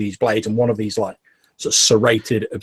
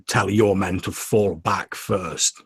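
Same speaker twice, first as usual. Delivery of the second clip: slow, lightly voiced shaman; a hint of a menacing tribal chief; game master voicing the shaman, slow and commanding; broken barbaric tongue; slower than usual. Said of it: "his broken barbaric tongue".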